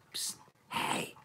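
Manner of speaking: tempting little whisper in the ear. Retold or imitated. Whiskey whispering to a drinker, tempting whisper. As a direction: hiss it like a bad conscience. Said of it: "will come up and whisper in your ear".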